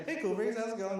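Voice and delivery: loud, high hello; hearty greeting. Retold or imitated. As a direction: greet the neighbor at full voice. Greeting a neighbor who walks in.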